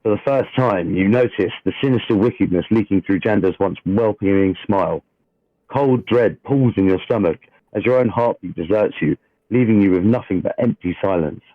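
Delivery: steady dramatic scene-setting read; game master narration. A narrator's reading. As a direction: read the opening like a storyteller at the table.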